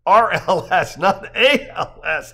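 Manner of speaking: loud, high, slowing to spell it out; amused, emphatic spelling-out of letters; laughing correction. A narrator's reading. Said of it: "Joe laughs".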